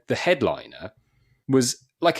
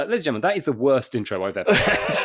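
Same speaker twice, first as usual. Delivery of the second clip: laughing announcement; 3 semitones higher than usual. Retold or imitated. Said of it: "had to go on and go".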